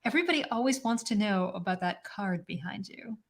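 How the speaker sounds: a hushed, teasing whisper. Acted. Co-host whispers to the host about the card behind him. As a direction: whisper it like gossip.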